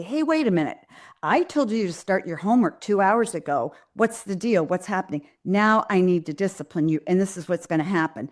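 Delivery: mad but controlled parent; firm, not yelling. Acted. Parent disciplining a child over late homework, firm and controlled. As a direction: discipline firmly without raising your voice. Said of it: "Very different from yelling at your kid".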